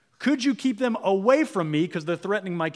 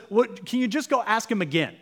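pushy king; 6 semitones higher, 3 dB louder than usual. Retold or imitated. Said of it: "Balak says".

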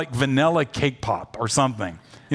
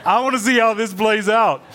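higher and louder, laughing; gleeful, savoring the awkward moment; laughing as he refuses to leave; amused refusal; 7 semitones higher, 5 dB louder than usual. Retold or imitated. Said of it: "took a step back and said".

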